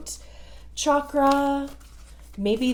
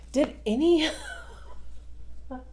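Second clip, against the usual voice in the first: laughing; 6 semitones higher, faster than usual. Real, not acted. Laughs at the confusing message.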